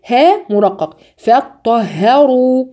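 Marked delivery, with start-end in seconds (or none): 1.2-2.7 فطهروا slow, thin ه, heavy ر; tajweed recitation. Shown as a demonstration. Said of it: "والراء هرجع أفخم". (فطهروا بترقيق الهاء وتفخيم الراء)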